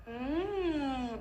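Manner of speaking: warm-up hum through the straw; short straw phonation hum. Shown as a demonstration. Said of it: "I'll go".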